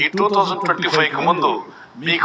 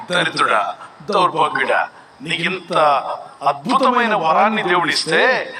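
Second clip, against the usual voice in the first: acted scolding; 2 semitones lower than usual. Elder berates the man who threw diamonds away, acted scolding. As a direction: play an elder giving a dressing-down. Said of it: "పెద్ద ఆయన class ఇచ్చాడు".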